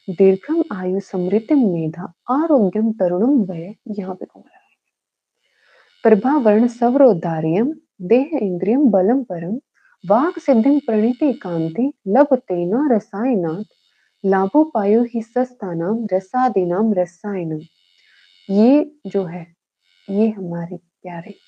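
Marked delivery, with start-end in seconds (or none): 0.1-3.7 slow, measured Sanskrit verse reading; shlok recitation. Shown as a demonstration. Teacher shows students how to read the shlok, measured recitation. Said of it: "हम इस श्लोक को read कैसे करेंगे". 6.0-17.6 Sanskrit verse in a rising and falling lilt; chant-like, measured reading of a shlok; shlok recitation. Shown as a demonstration. Teacher shows students how to read the shlok, lilting recitation. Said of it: "हम इस श्लोक को read कैसे करेंगे".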